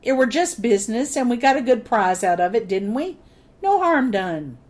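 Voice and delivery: a hint of a whining pirate; sniveling toady. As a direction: lightly whine the excuse. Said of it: "he whined".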